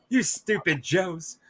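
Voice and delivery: slow, drawn-out sneer at the Joes; lightly voiced cartoon villain taunt; Zartan impression. Friend mimics the cartoon villain's voice, slow lightly sneering. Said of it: "it's the voice".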